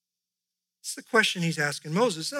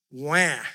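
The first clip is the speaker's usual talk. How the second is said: a short hammed-up baby cry "wah"; fake-cry like a pouting child; mock wail; 3 semitones lower, 4 dB louder than usual. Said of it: "Do you get the tone here?".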